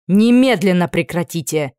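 loud order over the noise; commanding shout. Acted. Anna silencing the quarreling women, loud order. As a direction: cut through the din. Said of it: "Голос Анны перекрыл шум".

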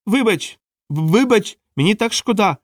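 very high, frantic wail; high-pitched desperate yelling; crying out an apology. A narrator's reading. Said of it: "волав Едвард".

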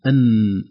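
"أن" said alone with a nasal nun; isolated nun. Shown as a demonstration. Teacher contrasts nun with lam. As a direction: sound out "أن" on its own. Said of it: "لاحظوا اللسان".

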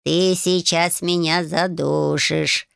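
slow, squeezed wheeze; cat wheezing in a crushing hug. A narrator's reading. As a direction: wheeze it out as if being hugged too tight. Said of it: "просипел кот".

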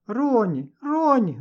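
громко и высоко зовёт собаку; позови собаку издалека во весь голос; крик. A narrator's reading. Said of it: "закричала Роза". (девочка кричит, увидев свою собаку)

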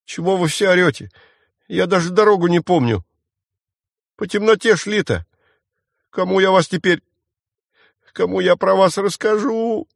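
высоко, жалобно ноя; ной жалобно, почти воя; подвывая. Acted. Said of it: "перестал выть". (мальчишка жалобно подвывает, оправдываясь)

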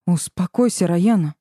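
plain reading voice

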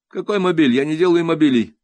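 offended artist rejecting the word; indignant sculptor. A narrator's reading. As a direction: hit какой hard, offended.

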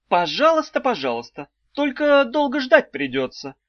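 high, sing-song wife voice; a high cooing old wife; wife's high voice. A narrator's reading. Wife teasing the trapped children, high and cooing. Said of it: "проговорила Далила Петровна".

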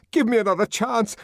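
high, urgent begging; pleading for mercy; desperate plea. A narrator's reading. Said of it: "The tears began to flow".

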